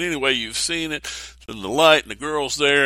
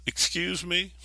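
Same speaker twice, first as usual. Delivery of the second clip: God; 8 semitones higher, 5 dB quieter, slower than usual. Retold or imitated. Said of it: "God comes to Nathan and says".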